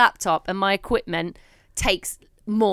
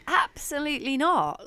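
flat refusal; 5 semitones higher than usual. Retold or imitated. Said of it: "I was just like".

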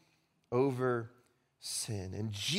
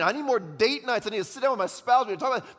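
mock screaming; 7 semitones higher, 5 dB louder, faster than usual. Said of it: "You'd be screaming".

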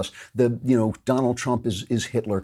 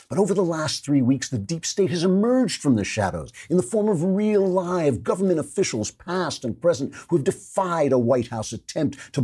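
mock awe; 7 semitones higher than usual. Mocking the Times article aloud.

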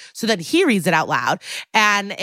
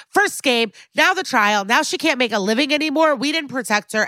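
higher, mock-angry rant; mock yelling; 6 semitones higher than usual. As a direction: rattle off the complaints like an upset cop. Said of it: "Kat starts yelling at everyone again".

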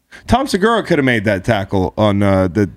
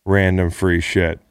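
slow, plain Bernie Sanders imitation; lightly voiced Bernie appeal; Bernie Sanders meme voice; slower than usual. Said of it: "in my Bernie Sanders meme voice".

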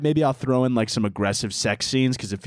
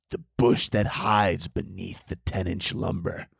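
mock sultry narrator; 2 semitones lower than usual. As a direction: draw it out like a cheesy romance narrator.

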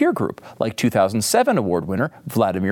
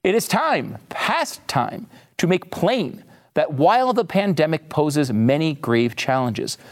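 reading a quote. Acted.

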